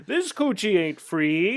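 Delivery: slow, laughing through the words; laughing line. Retold or imitated. Answering the orphan joke while cracking up. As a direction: giggle out the retort.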